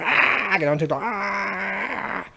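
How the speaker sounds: whining parody of a TikTok ranter; mock whiny voice. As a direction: ham up a pouty complainer.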